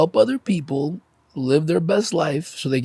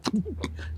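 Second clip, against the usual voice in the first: demonstrated stifled sob, short puff of air; holding in crying; 5 semitones higher, 11 dB quieter than usual. Shown as a demonstration. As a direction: mimic choking back a cry, unvoiced puff. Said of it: "trying to hold it in".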